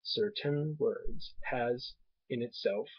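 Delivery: slow, "certain words" split into syllables; syllable stress demo. Shown as a demonstration. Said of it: "three syllables".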